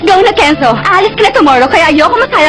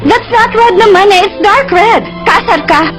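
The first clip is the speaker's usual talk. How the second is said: bratty; 6 semitones higher, slower than usual. Acted. Bratty girlfriend corrects him.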